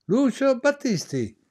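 high, slow stage announcement of a name; mild mock presenter calling the act; announcer call. Announcer calls a singer to stage.

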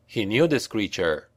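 plain reading voice

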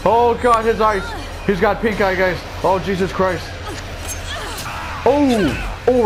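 shocked outcry. Real, not acted. Shocked reaction to game attack.

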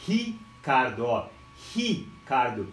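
"Ricardo" split, with the R breathed as h; Portuguese initial R. Shown as a demonstration. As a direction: say "Ricardo" as "hi... cardo", isolating the first syllable. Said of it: "o R no português".

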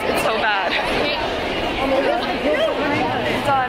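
raspy, near-whispered voice; lost voice. Real, not acted. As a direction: speak through a shot, hoarse throat. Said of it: "I have no voice".

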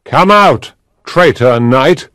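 knight's loud demand; loud cry. A narrator's reading. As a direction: challenge called through a door. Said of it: "he cried loudly".

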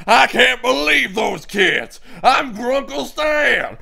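lightly voiced gruff old uncle; a hint of a proud old con man; Grunkle Stan voice. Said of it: "time to do Grunkle Stan".

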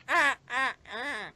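mocking the yelps. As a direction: parrot his yelps back at him. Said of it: "What was that?".

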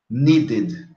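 "needed" in two syllables, nee-did. Shown as a demonstration. Teacher gives another example, "needed" said nee-did. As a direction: sound the full last syllable of "needed". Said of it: "como se fosse um I D".

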